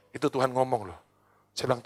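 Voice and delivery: ordinary talk, nothing marked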